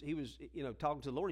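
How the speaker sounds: ordinary talk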